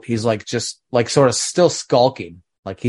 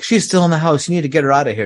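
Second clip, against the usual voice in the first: mock panic; 5 semitones higher, faster than usual. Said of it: "like, panics and she's like".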